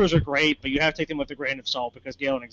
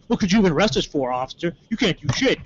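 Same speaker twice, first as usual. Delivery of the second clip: quick, higher mock defiance; mouthing off; 3 semitones higher than usual. Friend challenging the cop, mock mouthing off. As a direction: goad the officer, lightly imitated. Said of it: "starts mouthing off".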